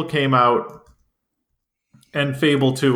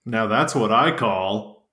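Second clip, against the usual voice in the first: low, slow announcer voice; deep, drawn-out ad-announcer delivery; 5 semitones lower than usual. Pretend. Parody of a compilation ad slogan.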